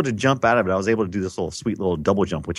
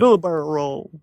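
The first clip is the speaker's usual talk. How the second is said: Star Fox quote; 6 semitones higher than usual. Retold or imitated. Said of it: "Who was it?".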